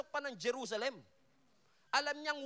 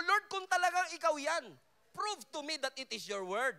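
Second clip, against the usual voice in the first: mock doubting believer; 5 semitones higher than usual. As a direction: play the doubter asking God for ID.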